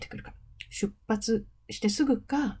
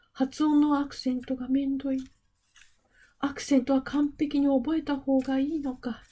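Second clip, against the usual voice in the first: lightly voiced complaining students, higher; reading student complaints a little higher and put-on; students' voices; 5 semitones higher than usual. A teacher reading out her students' anxious questions, lightly voiced higher. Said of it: "心の叫びに".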